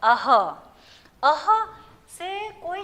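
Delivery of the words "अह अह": अह as "a-ha", with an audible h; careful teacher's model of अह; demonstrated pronunciation. Shown as a demonstration. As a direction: sound अह in two short beats, "a-ha". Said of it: "उसका उच्चारण क्या होता है".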